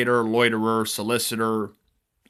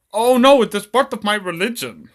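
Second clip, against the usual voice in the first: high, loud mock panic; acted alarmed protest; 10 semitones higher, 7 dB louder than usual. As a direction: protest like a cartoon victim. Victim protests being made to remove turban.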